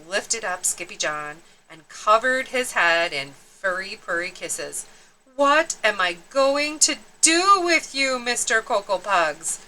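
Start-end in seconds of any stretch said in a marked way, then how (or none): 5.4-9.6 scolding. Acted. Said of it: "she scolded".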